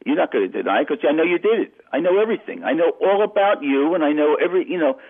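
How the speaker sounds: ape the mobster's threats with rising heat; menacing gangster. Retold or imitated. Retold mobster threatening on phone.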